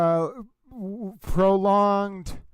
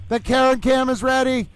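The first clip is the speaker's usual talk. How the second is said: raised, bright sign-off voice; the towel hyping up viewers before court; lightly voiced towel host; Little Towel voice; 2 semitones higher, faster than usual. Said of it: "Stay with Little Towel".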